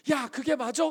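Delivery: high, loud burst of indignation; loud imitation of a hothead; mock angry yell. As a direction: act out someone blowing up. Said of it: "하고 막 큰 소리 치다가".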